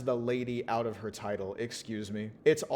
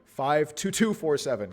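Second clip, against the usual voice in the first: corrected ID; 4 semitones higher, 6 dB louder than usual. Shown as a demonstration. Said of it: "I got her I D wrong".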